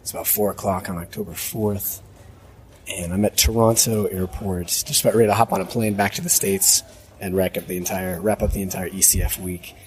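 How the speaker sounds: rough raspy voice; hoarse from too much talking; smoker's rasp. Real, not acted. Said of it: "from sounding like Chainsmoker here".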